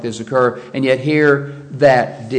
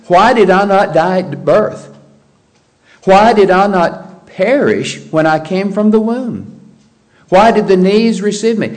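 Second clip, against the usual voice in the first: higher, louder anguished questioning; raised-voice lament from scripture; Job; 4 semitones higher, 4 dB louder than usual. Acted. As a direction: cry out a complaint to God, lightly acted. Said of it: "what Job had to say".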